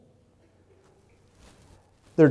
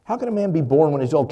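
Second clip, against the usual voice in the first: quick, louder mocking repeat; heavy sarcasm; 2 semitones higher, 5 dB louder, faster than usual. Nicodemus scoffing back at Jesus, louder and faster, sarcastic. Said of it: "do you hear kind of the sarcasm".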